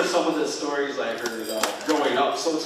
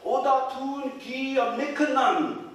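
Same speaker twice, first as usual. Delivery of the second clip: high, slow, carrying shout; grandfather's loud answering call; shouted back; 13 semitones higher, 4 dB louder, slower than usual. A narrator's reading. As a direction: call back into the woods, drawn out. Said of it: "he shouted back at the voice".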